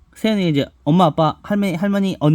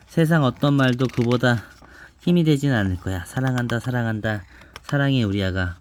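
put-on reading to a child. Mother reads picture book aloud.

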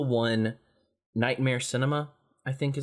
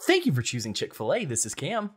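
cheery fast-food cashier greeting; bright, formal customer service script; Chick-fil-A voice; 3 semitones higher than usual. Shown as a demonstration. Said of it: "I could do my Chick-fil-A voice".

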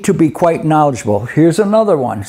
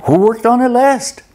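mock investigator; 7 semitones higher than usual. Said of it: "it's like".

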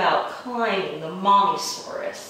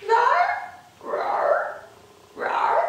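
mommysaurus roars; much slower than usual. Acted. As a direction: squeal out the roars like an angry mom dinosaur.

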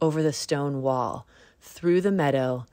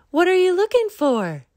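very high, squeaky and loud; mole voice; 8 dB louder than usual. A narrator's reading. Mole pokes out its nose at Bunny, squeaky high voice. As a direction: squeak it out like a tiny burrowing mole. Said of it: "asked Mole".

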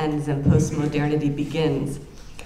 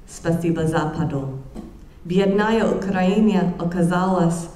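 reading Russian aloud. Shown as a demonstration. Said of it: "listening to my terrible accent".

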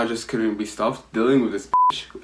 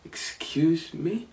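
indignant; 4 semitones higher, 6 dB quieter, much slower than usual. Retold or imitated. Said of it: "I was like".

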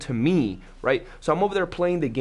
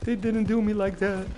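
high, much higher wailing no of disbelief; anguished disbelief; 8 semitones higher than usual. Retold or imitated. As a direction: cry out like the game just betrayed you. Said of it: "and I'm like".

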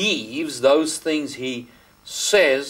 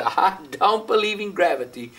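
higher-pitched, hammed-up panic while plunging; mock falling denial; 6 semitones higher than usual. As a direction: play a man insisting mid-fall, half-mocking. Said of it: "if they jump off a thirty-story building".

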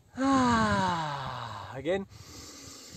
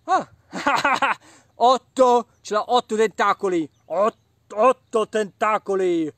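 excited; 2 semitones higher, 9 dB louder than usual. Real, not acted. Counting reveal of eight.

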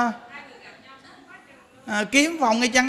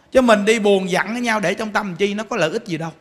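ordinary talk, nothing marked

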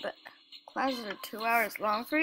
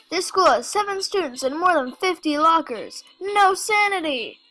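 mock outrage; 4 semitones higher, 8 dB louder than usual. Real, not acted. Exclaiming at absurd game.

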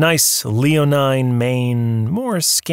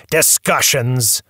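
slow, scornful repeat; sneering; slower than usual. Acted. Tycoon mocks the visitor's word, slow and scornful. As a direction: sneer the word back at him. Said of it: "sneered Mister Sherman".

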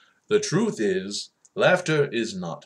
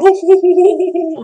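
very high, loud hammed-up hoots of laughter; mock laughing; 16 dB louder than usual. Acting out you laughing at Jerry's joke, hammed-up guffaw. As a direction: act out roaring at a joke. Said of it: "you're laughing".

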